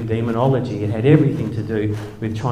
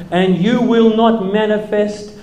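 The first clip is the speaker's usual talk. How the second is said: slow, louder commanding exorcist voice; preacher rebuking a demon, slow and loud; deliverance preacher; 7 semitones higher, 8 dB louder, slower than usual. Retold or imitated. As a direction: command the demon slowly and heavily. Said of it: "he said something like this".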